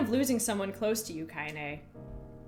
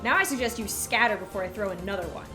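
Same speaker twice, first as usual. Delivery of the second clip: voice thick with rage; 4 dB louder than usual. Acted. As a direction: threaten the brats with cold fury. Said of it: "in a voice thick with rage".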